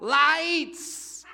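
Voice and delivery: sudden high loud yell. Retold or imitated. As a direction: shout the warning out sharp. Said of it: "she yells out".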